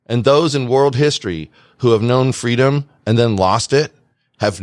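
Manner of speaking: measured oration with weighty pauses; solemn quote reading. Acted. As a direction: recite it like a political speech, phrase by phrase. Reads out a famous quotation.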